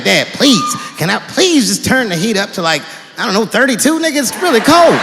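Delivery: high whiny begging; pleading whine. Retold or imitated. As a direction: beg like a cold kid. Begging dad for heat.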